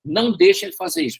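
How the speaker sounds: quick, high-pitched retold warning; Holy Spirit's warning. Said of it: "o Espírito Santo falou comigo".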